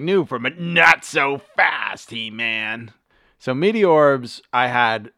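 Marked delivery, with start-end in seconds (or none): 0.0-2.9 slow, hammed-up toy ad announcer; toy commercial. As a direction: drawl it like a cheesy eighties ad. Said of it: "It was like".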